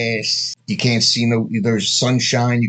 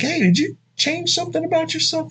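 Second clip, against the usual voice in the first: backhanded compliment. Shown as a demonstration. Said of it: "You'd be like".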